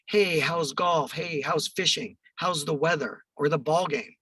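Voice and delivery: lightly hammed-up sales small talk, drawn out; mock salesman's slow, over-friendly openers; cheesy salesperson. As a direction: put on a slightly cheesy salesperson's chummy patter. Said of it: "'Cause I'm a cheesy salesperson".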